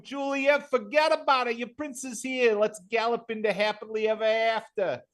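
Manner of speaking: a Brooklyn Romeo calling up to Juliet, half-mocking. Vinny playing Romeo under her window, hammed up. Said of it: "yelling up to her window like I'm freaking Romeo".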